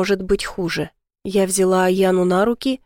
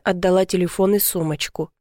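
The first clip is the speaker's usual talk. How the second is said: plain reading voice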